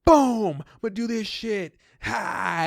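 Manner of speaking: loud, high triumphant boast; cocky Dave. Retold or imitated. Imitating Dave boasting as he plays a card. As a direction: crow it like a sure winner. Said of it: "He's like".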